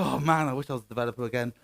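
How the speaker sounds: regretful developer. Acted. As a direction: toss off the wish quickly and low. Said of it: "then you will go".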